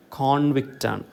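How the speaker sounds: കോൺവിക്റ്റാണ് with a full, weighted CON; stress on first syllable. Shown as a demonstration. Teacher giving the noun form, CON stressed in കോൺവിക്റ്റാണ്. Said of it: "stress falls on the first".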